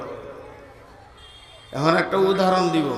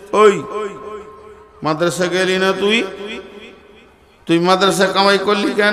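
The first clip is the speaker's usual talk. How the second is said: scolding elder brother. Retold or imitated. Elder brother scolds truant boy.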